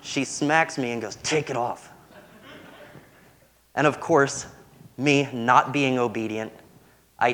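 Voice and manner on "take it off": quiet stern mom hiss; mock mom through clenched teeth; through gritted teeth. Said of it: "talk through their teeth at you really quietly".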